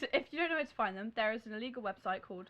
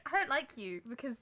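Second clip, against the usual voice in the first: put-on corrected non-Australian accent. Replaying Delancey after being teased, without Australian accent. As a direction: redo the rival, dropping the Australian accent. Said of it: "She's not Australian".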